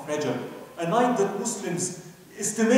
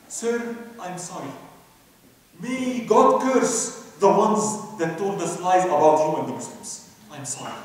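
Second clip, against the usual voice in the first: mild crying; 2 semitones lower, 4 dB louder than usual. Retold or imitated. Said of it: "She cried".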